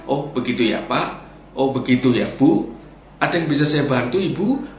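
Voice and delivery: gentle, patient service voice; calm acknowledging reply. Shown as a demonstration. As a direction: soothe the complaining customer kindly. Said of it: "cara menjawab yang tepat adalah". (pelayan yang ramah dan tenang)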